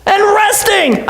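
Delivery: exasperated teacher finding his friends asleep; Jesus rebuking. Acted. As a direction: draw out the disappointment in "resting". Jesus rebuking sleeping disciples.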